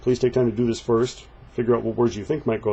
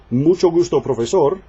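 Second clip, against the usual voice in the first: brighter voiced textbook dialogue; acted dialogue line; 6 semitones higher, 5 dB louder than usual. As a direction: read it like a greeting in a scene. Voicing dialogue lines for class.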